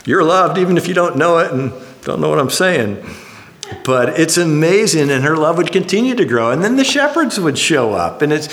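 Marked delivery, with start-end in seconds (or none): 0.0-3.0 tender talk to the bump. Retold or imitated. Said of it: "I'd go down and listen".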